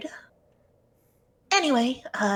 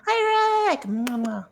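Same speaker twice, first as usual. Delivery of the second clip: high, loud sing-song hello; excited greeting; 10 semitones higher, 4 dB louder, slower than usual. Real, not acted. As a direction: call out a cheery hi. Greeting new viewer Rick.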